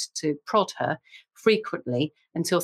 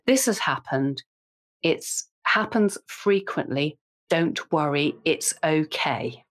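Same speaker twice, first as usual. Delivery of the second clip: gentle teacher reassurance; 2 semitones lower, slower than usual. Retold or imitated. Kind reception teacher reassuring a panicked parent, gently and slowly. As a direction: soothe a worried parent, slowly. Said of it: "a lovely teacher who said".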